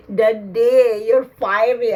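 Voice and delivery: choked-up cry to a lost father; tearful cry. Real, not acted. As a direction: voice cracking with real tears, calling Daddy. Emotional call to the spirit.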